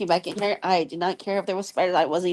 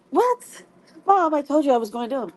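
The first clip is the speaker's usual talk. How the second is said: much higher and louder, fast; calling out; 6 semitones higher, 4 dB louder than usual. Real, not acted. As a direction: shout back to another room. Calling back to her mom.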